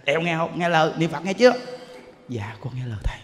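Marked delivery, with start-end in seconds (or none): 2.3-3.2 imitated low, near-whispered obedience; meek hushed reply. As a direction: play her answering softly and submissively, pitched down. Voices the woman's meek obedient reply.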